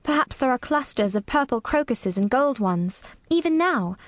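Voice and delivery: gently slow, low storytelling voice. A narrator's reading. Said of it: "very slowly and in a very low voice".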